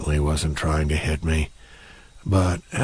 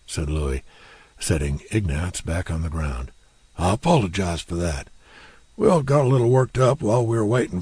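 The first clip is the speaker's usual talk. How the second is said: Louis, gruff warning; 3 semitones higher, 3 dB louder than usual. Acted. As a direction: back off but still warn him off. Louis voiced as character.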